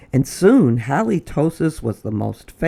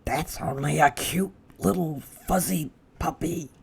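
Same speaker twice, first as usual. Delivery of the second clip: soft whisper, a touch higher; hushed reassurance; 3 semitones higher, 6 dB quieter than usual. Acted. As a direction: coo it quietly. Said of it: "whispered the other burglar".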